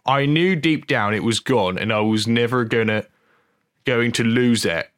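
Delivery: lightly put-on Norfolk country accent; comic attempt at a Norfolk accent; Hot Fuzz voice. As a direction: read the quote in mock Norfolk. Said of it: "Hot Fuzz voice".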